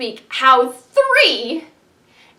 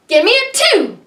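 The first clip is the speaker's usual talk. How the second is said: calling out; 9 semitones higher, 6 dB louder than usual. Acted. Calling for a number.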